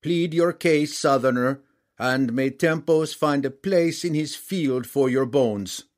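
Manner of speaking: slow, loud, menacing king voice; menacing giant king. A narrator's reading. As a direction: loom over him like a brutal warlord. Giant king threatens the prisoner.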